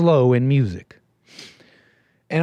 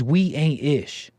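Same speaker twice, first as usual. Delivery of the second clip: mocking the caller; slower than usual. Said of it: "He says".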